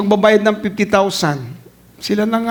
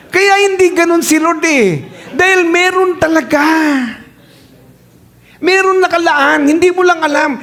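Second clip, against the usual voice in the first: laughing correction; 8 semitones higher than usual. Acted. Preacher rises laughing to correct.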